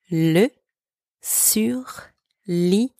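surligneur breathed slowly, almost a whisper; slow, hushed model of surligneur; slow whispered demo. Shown as a demonstration. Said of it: "Repeat after me".

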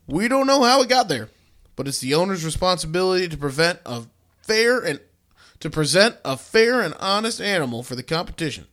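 hammed-up official statement, building to indignation; indignant state vet, rising to a shouted finish; quoting an official. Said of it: "And he said, quote".

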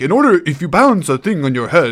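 hammed-up guru pronouncing wisdom; mock wise mentor. The Sphinx lecturing the trainees, mock wise and brisk. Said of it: "the Sphinx says something all wise".

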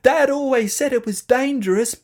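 very high loud alarm; frightened shouting. A narrator's reading. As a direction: cry out while hurtling down. Children sliding down.

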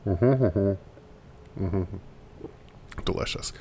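hums while gulping beer; drinking. Real, not acted. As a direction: savour a sip between words. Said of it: "a drinky break".

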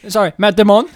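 loud laughing apology. Real, not acted.

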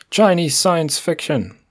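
high, slow, hammed-up bold type; bold text voice. Shown as a demonstration. Host's worsening take on bolded blurb words, bold text voice. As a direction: push it up high and drag it out like bold print. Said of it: "bold text voice is getting worse with each time".

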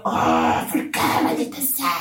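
lamento exagerado entre quejidos; llanto imitado. Retold or imitated. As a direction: imitar su propio berrinche llorón. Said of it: "yo estaba llorando". (lloriqueo teatral de borracha arrestada)

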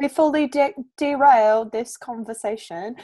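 lightly put-on British accent; playful mock-British aside. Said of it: "talk in British accents".

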